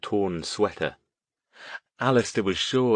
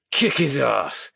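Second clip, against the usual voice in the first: yelled; 5 semitones higher, slower than usual. A narrator's reading. Thugs charge yelling.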